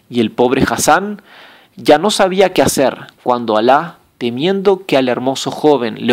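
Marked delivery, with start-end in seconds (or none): none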